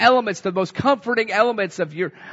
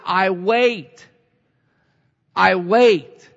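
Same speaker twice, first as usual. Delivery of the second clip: building declaration; 5 dB louder, much slower than usual. Retold or imitated. Preacher quoting psalmist, building.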